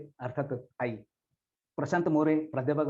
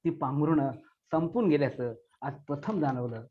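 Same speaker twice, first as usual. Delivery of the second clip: poem recitation. Acted. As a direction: recite as a grieving child's farewell. Recites poem about lost mother.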